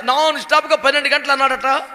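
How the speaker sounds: ordinary talk, nothing marked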